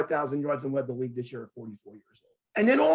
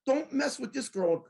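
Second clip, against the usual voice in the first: pitched-up imitation of a huffy man; mock mad; 4 semitones higher than usual. Stranger defending a girl online against caps, mock huffy. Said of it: "he's getting mad".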